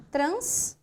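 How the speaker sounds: "Trans" cut off alone, ending on s; detached first piece. Shown as a demonstration. Teacher showing what many people do, "Trans" detached and rising. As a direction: isolate "Trans" with a rising tune. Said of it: "O que muita gente faz?".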